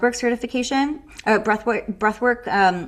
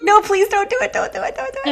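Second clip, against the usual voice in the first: mock pleading; 11 semitones higher, 3 dB louder than usual. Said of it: "She's like".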